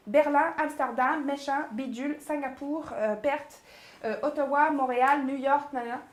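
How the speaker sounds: city names rattled off, from "Berlin" to "New York"; rapid-fire list. Shown as a demonstration. Coach listing launch cities to impress, very fast. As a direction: rattle through the cities, tailing into "nanana". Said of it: "on va y aller très, très vite".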